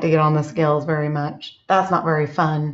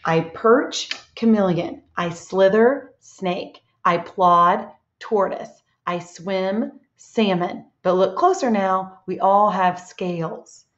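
picture-book read-aloud with a rise before each animal; lilting riddle rhythm with little pauses; slower than usual. Shown as a demonstration. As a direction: read it to a class, drawing out the last line. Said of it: "read it again".

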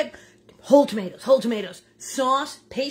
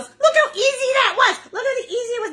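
laughing; 13 semitones higher, 6 dB louder than usual. Real, not acted. Laughing wrap-up to viewers.

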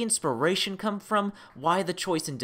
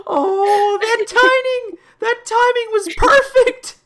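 excited; 9 dB louder, slower than usual. Real, not acted. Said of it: "well played".

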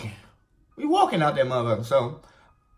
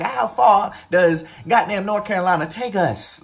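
loud, high, fed-up complaint; exasperated outburst; 8 semitones higher, 5 dB louder than usual. Retold or imitated. Soldier griping about the endless march, exasperated shout. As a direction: throw up your hands, loud and high. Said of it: "So I'm like".

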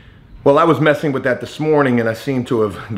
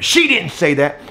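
mild mock yell, pitched higher; retold yell; 4 semitones higher than usual. Supervisor denying the neighbor's complaint, mildly yelled. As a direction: imitate the supervisor's protesting outburst. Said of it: "that's when he was yelling at me".

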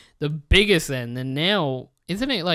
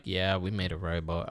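mock company confession; 8 semitones lower, 6 dB quieter than usual. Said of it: "if they come out and be like".

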